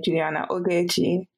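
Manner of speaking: "Juliana Ogechi" out of the British accent; non-British accent. Shown as a demonstration. Telling friend how they always say their creative name, non-British accent. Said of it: "never say it in my British accent".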